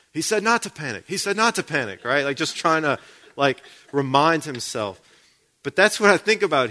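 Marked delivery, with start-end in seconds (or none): 0.1-2.0 higher-pitched imitation of someone panicking; mock panicked voice. Movie diver reassuring himself among sharks, mock panicked. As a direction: repeat it in a mild, put-on panic. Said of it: "saying over and over in a panicked voice".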